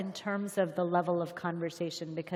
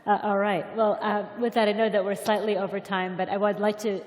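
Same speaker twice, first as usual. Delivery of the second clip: louder, calling the room to attention; raising voice for applause; 5 dB louder than usual. Real, not acted. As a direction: announce it over the crowd.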